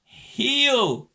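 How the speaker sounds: high, loud dog commands; shouted commands. A narrator's reading. Someone orders the dogs to behave, loud high commands. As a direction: call each word out sharply.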